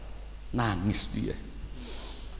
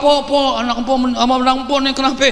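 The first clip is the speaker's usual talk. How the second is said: gossiping neighbour; 4 dB louder than usual. Retold or imitated. Neighbours gossiping about burnt child.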